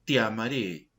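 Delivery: slow, stretched-out words; drawn out. Shown as a demonstration. Teacher shows students a longer duration, said slowly. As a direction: stretch each word of the vow. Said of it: "por ejemplo".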